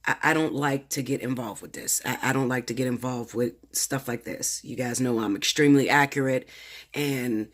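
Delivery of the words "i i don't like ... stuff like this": nervous stutter, repeating words; stammering from real nerves. Real, not acted. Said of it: "stuttering, I'm shaking".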